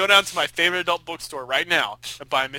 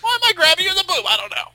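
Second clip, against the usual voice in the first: Seinfeld impression; 13 semitones higher, 6 dB louder than usual. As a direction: deliver it like a standup bit. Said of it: "Very Seinfeld way of doing this".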